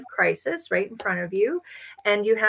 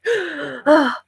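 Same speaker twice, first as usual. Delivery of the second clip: sharp gasp then higher, louder "ah"; mock a flustered parent's gasp; sudden overwhelmed gasp; exasperated gasp; 6 semitones higher, 6 dB louder than usual. Acting reactive, not centered.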